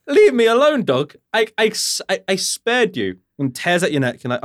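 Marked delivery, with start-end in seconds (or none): 0.1-3.2 mock panic. Player begging the attacking dog in mock high panic. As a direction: squeal at the dog in hammed-up panic. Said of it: "I was like".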